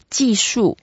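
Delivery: "技术" with each syllable starting high and dropping; two falling tones. Shown as a demonstration. Teacher models technique in Chinese, "技术" falling on both syllables. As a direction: go down on both halves of "技术". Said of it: "so we go down as well".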